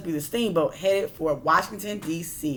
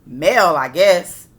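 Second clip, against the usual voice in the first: offhand guess; 9 dB louder, slower than usual. A narrator's reading. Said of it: "said the other".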